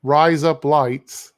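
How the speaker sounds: "Rise Up Lights" stretched out very slowly; slow practice attempt at "Rise Up Lights"; slow repeat. Shown as a demonstration. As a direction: carefully copy "Rise Up Lights", drawing out each word. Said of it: "say it in your voice".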